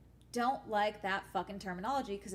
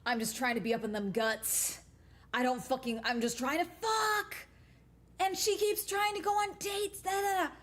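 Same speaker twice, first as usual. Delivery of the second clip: ranting TikTok guy; 3 semitones higher than usual. Retold or imitated. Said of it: "He's like".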